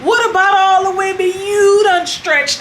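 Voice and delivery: slow, drawn-out how dare you; hammed-up outrage, slowly; mock indignation. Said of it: "So they going crazy".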